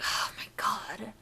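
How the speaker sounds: lightly voiced sulky emo guy; emo anime guy. Podcaster playing a fed-up emo anime guy, mock-mad. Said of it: "like an emo anime guy".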